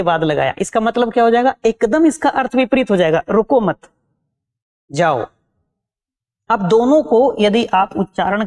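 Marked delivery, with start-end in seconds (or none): 3.3-5.3 रुको मत run together, long break, then जाओ dropped lower; pause after मत. Shown as a demonstration. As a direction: join रुको मत, stop, then a separate low जाओ. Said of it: "यदि हमने अल्प विराम चिन्ह".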